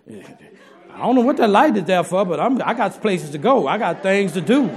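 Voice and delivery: laughing through a carefree wife voice; laughing imitation. Preacher voicing a wife ignoring warning lights, laughing. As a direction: play the busy wife, laughing.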